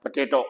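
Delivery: पोटैटो with a weak "puh" start and long final O; schwa first syllable. Shown as a demonstration. Teacher showing both O sounds, schwa first. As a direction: reduce the first O of "पोटैटो", keep the last long. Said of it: "पहला श्वास sound है".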